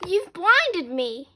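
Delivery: slow, high wail of complaint; drawn-out, acted outrage; mild scream. A narrator's reading. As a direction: wail it slowly, overdramatic. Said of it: "screamed Margaret".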